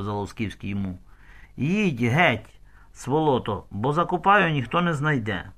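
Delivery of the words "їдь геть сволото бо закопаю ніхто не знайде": threatening. Acted. Zaluskivskyi threatening the stranger to leave or be buried. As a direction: threaten to bury him.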